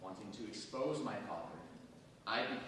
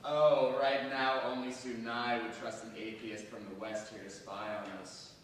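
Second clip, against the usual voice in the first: scornful retort; 7 dB louder than usual. Acted.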